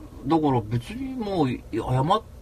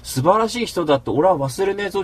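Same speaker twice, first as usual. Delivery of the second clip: raised, heated voice; retold anger; 6 semitones higher than usual. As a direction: vow it angrily. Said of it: "って怒るわけ".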